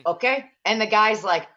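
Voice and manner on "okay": imitated Eastern Bloc accent; Slavic accent. Aldi employee ending the can limit, Slavic accent. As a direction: close the rule in a mock Slavic accent. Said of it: "Eastern Bloc accent".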